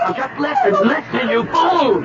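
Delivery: high strained yell; frantic shouting. Acted. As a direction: shout her down. Man struggling with girl.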